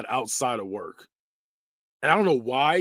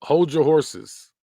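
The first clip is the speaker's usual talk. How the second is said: put-on slow, slightly louder old-timer; old people voice; 4 semitones higher, 5 dB louder, much slower than usual. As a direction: drawl it like a grandpa. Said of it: "That's just old people".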